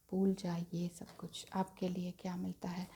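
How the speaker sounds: very soft, near whisper; gently hushed, almost breath only; hushed reassurance. Real, not acted. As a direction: let the voice sink right down. Soothing viewer, then turning to cards.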